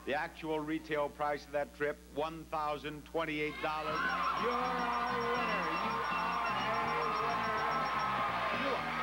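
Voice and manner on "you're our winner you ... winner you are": excited. Real, not acted. Host announces the winner.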